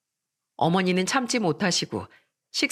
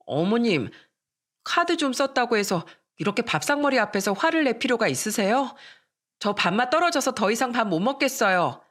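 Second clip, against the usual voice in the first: daughter-in-law talking back, voice pitched higher; spoiled daughter-in-law, higher and pouty; sassy daughter-in-law; 4 semitones higher than usual. Acted. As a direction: answer back with a pouty sulk.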